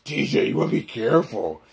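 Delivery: throaty cartoon dog warning; Scooby-Doo. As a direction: warn him in talking-dog garble. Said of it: "Scooby, shut up".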